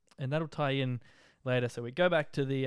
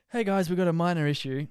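imitating pilot announcement; 5 semitones higher, 7 dB louder than usual.

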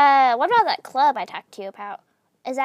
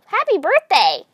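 Junebug; 5 semitones higher, 8 dB louder than usual. Acted. Junebug wishing Moth well on the big day, excited cheer. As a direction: burst out cheering, stretching the words. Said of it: "That was Junebug, by the way".

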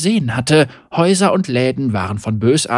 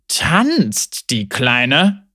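grumbling; 2 semitones lower, much slower than usual. Acted. Haggard thug puzzled by her running in place, grumbling. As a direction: lean thug's puzzled grumble. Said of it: "brummte der Hagere".

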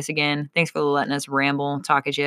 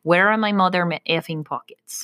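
mock Russian grumble about pockets; heavy put-on Russian accent. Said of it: "And this is how".

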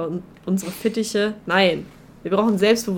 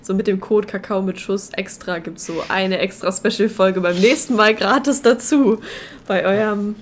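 hammed-up promo pitch, building louder; mock ad read; 4 dB louder than usual. Host pitches listeners a fake promo code, mock ad voice. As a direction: pretend to sell a free bonus episode.

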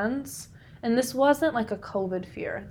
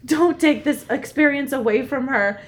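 loud, higher, emphatic retold order; firm; 4 semitones higher, 8 dB louder than usual. Giving Dad a pep talk for the daughter, very firm. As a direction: lay down the law, reenacted. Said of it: "I was so firm".

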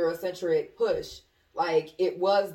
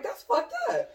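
laughing. Retold or imitated. Retold reply while laughing.

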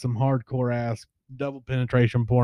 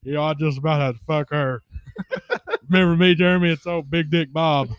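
imitating Bobby; 3 semitones higher than usual. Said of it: "not exaggerating at all".

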